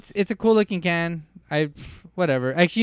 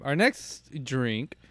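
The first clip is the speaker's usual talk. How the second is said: talking while burping; 2 semitones lower, 6 dB quieter, much slower than usual. Real, not acted. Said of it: "excuse me".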